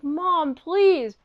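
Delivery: acted plea to a mother; imitated son's begging; pleading. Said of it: "he's pleading to her".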